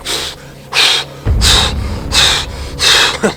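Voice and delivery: imitated moose panting; heavy, voiceless puffs in a row; out-of-breath huffing. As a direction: huff like a winded moose. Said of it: "all out of breath".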